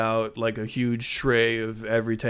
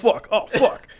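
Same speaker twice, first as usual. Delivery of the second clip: panicked swearing; 11 semitones higher, 5 dB louder than usual. Retold or imitated. Mock panic, owned.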